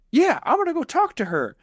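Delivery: put-on high dopey country boy agreeing; goofy hick voice. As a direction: play Dale psyching himself up in a silly high voice. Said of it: "And Dale's like".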